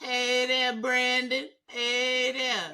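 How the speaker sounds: a hint of a chirpy streamer; mock streamer greeting. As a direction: greet each viewer like a host. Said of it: "Y'all keep on coming in".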